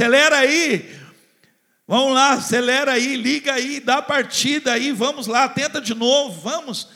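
loud high rallying cry; urgent urging. Retold or imitated. God urging the barren one to sing, loud and high. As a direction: shout them into action like a coach. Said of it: "é como se falasse".

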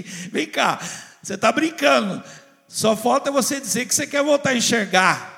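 high, loud, fiery pastor's call; full-force preaching. Acted. Pastor preaching Sunday worship to believers at home, loud and fiery. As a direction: preach it out big to the whole church.

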